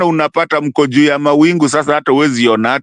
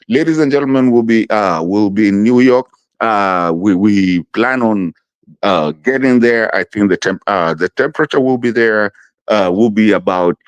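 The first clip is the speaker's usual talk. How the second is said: pilot announcement; 5 semitones lower than usual. Retold or imitated. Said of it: "they will tell you".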